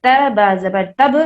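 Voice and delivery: put-on slow spelled-out تب زبر تب for children; spelling out. Shown as a demonstration. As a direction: sound out تب letter by letter. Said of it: "اس کو ایسے پڑھا جائے گا".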